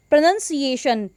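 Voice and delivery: प्रोनंसिएशन with NUN as second syllable; carefully said प्रोनंसिएशन, "nun" not "noun"; correct pronunciation. Shown as a demonstration. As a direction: say प्रोनंसिएशन as pro-NUN-see-AY-shun. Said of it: "उनकी correct प्रोनंसिएशन आप लोगों के लिए".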